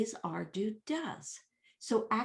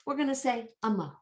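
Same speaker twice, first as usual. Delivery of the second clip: quick, raised put-on voice; mock decision; 5 semitones higher, much faster than usual. Teacher voicing those who chose amo, brisk mock decision. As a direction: announce it briskly for the objectors. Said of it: "They just said".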